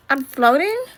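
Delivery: rising, wondering question; puzzled floating question. Acted. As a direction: ask it as if unsure it is real. Discovering he is floating.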